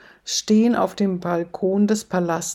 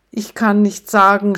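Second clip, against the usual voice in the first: angry shout; 5 dB louder than usual. Acted. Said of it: "schreit Papst wütend".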